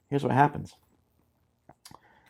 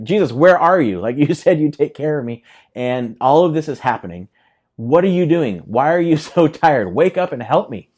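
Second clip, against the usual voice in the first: exasperated plea; 4 dB louder than usual. Acted. Acted plea to sleeping Jesus.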